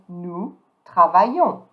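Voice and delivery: "Nous travaillons" slowly, both S's silent; silent final S. Shown as a demonstration. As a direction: end "travaillons" on nasal "yon". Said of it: "don't pronounce".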